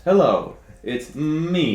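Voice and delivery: mock-formal message announcement; neutral voice. Shown as a demonstration. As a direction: announce yourself in a put-on neutral voice. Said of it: "Neutral voice".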